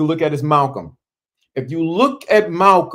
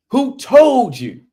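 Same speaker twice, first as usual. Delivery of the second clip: high, loud, slow oratorical demand; ringing rhetorical question; Malcolm X impression; 10 semitones higher, 5 dB louder, slower than usual. Shown as a demonstration. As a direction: stretch "told" like a great orator. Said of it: "That's Malcolm all the way".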